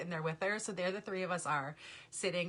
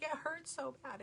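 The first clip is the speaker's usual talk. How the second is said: mock whiny child; 8 semitones higher, 6 dB quieter than usual. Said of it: "She'd be like".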